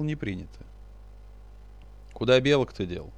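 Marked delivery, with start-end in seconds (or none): 2.1-3.1 grumbling. Acted. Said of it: "буркнул Кудыка".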